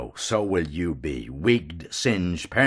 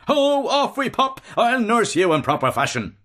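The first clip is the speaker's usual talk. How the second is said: higher, rough jockey's shout; rough whooping shout; 14 semitones higher, 3 dB louder than usual. A narrator's reading. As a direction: yell like a rider spurring his mount. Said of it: "roughly shouting".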